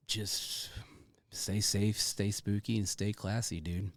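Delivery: hushed whisper, almost no voice. Acted. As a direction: breathe the sign-off in a whisper. Whispered sign-off to guest.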